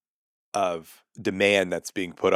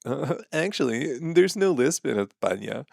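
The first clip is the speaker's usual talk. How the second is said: higher-pitched pedantic "well, actually" voice; mock know-it-all; 5 semitones higher than usual. Mimicking commenters who correct the joke, mock know-it-all. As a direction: mimic a smug corrector butting in. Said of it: "so many people like".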